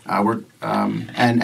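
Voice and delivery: lightly voiced party leader, low and hesitant; a hint of a serious leader, feeling for words; Bo Ring. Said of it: "How's he talk?".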